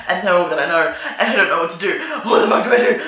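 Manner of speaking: giggling panic about being found out; laughing panic. Retold or imitated. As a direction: laugh through the panic as it builds. Panicked inner monologue, laughing.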